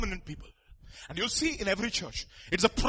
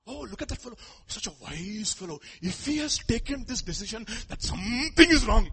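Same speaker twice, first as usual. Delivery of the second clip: admiring followers. Acted. Voicing admirers of prominent people.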